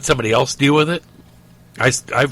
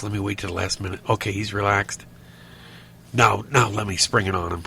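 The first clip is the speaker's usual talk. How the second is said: put-on scheming kid; 4 semitones lower, 6 dB quieter than usual. Voicing kids' scheming.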